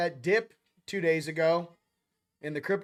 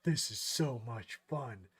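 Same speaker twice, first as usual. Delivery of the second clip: mock delight; 6 semitones lower, 7 dB quieter, slower than usual. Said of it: "in class like".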